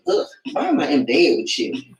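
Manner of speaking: a low, fed-up groan of disgust. Retold or imitated. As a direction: sneer it at the man beside you. Disgusted look at partner in bed.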